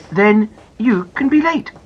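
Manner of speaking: slow, firm mother; unbothered, slow reply; lightly voiced mother, slow and firm; mother's voice. Mummy replies calmly.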